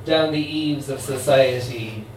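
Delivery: a light hint of a New Orleans accent. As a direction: voice the immortal voodoo queen with a faint New Orleans accent. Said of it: "try and do it in her accent".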